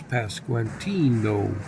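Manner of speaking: put-on Brainiac Baseball accent, name drawn out slowly; slow, showy Brainiac Baseball accent. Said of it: "That's called the Brainiac Baseball accent".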